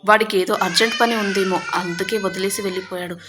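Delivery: a mother sobbing out an excuse for her son; tearful pleading. Acted. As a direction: speak through tears, loud and hurt. Grieving mother defends dead son.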